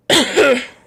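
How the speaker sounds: sudden loud hacking cough. Real, not acted. Wheezing asthma cough.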